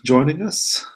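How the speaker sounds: slow, lilting invitation rising at the end; smiling invitation. Acted. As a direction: ask it with a smile, drawing it out. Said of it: "kinda smiles and says".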